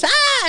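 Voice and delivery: squeaky high mock scream; imitated scream. Girl in a horror movie audience, mock high shriek. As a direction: do a girl's startled shriek, lightly. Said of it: "a girl goes".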